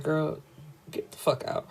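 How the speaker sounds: soft, half-whispered brush-off; hushed dismissal. Retold or imitated. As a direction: mutter it dismissively. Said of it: "It's basically like".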